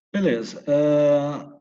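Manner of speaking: ordinary talk, nothing marked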